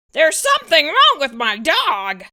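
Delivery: father phoning vet, worried. Acted. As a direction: call for help anxiously.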